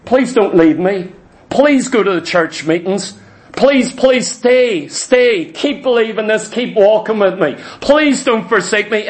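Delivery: hypothetical plea, lightly acted; a touch of imploring; mock begging. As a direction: plead with them to stay, stretching the key words. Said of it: "Is he begging them".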